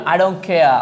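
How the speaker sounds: "care" ending "keh-ah", no r; British silent R. Shown as a demonstration. Teacher prompting learners to repeat, "care" without r. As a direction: finish "care" on a vowel. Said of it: "কি বলবেন?".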